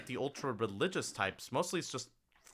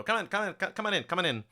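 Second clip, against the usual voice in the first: eager Maisie; 8 semitones higher, much faster than usual. Acted. Maisie ushers party in eagerly.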